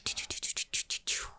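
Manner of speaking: quick mock whoosh sounds, whispered; whispered boost noise. Recalling Sonic's boost for the viewer, whispered mock whoosh. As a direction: imitate the speed boost in little puffs. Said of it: "ça te faisait faire".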